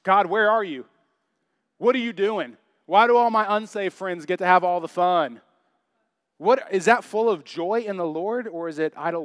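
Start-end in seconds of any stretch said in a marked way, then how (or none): 0.0-5.4 raised, demanding mock complaint; complaining to God. Pastor imitating his own griping at God, indignant complaint. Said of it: "I'm like".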